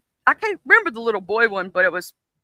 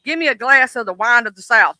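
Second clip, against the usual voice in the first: mock fancy order. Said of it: "I sometimes refer to it".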